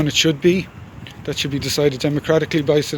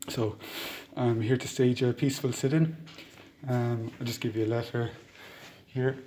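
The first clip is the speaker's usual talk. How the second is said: through a mask; 5 dB quieter than usual. Real, not acted. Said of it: "I'll leave the mask on while I speak".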